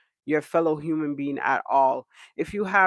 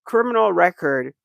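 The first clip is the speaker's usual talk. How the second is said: louder indignant questions; outraged rant; 6 dB louder than usual. Real, not acted. Vlogger fuming at a woman threatening viewers, louder. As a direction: raise the voice in disbelief.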